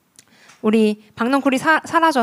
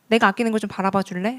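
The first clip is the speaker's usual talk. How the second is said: gentle voice of God. Retold or imitated. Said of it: "하나님은 부드럽게 이야기하시는". (부드럽게 묻는 하나님의 목소리)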